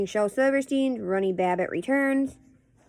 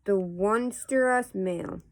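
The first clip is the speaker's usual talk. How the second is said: casual read-aloud of nonsense verse; poetry reading; slower than usual. Acted. Host reading Runny Babbitt poems to viewers, measured poetry reading. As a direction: read silly verse line by line, with pauses.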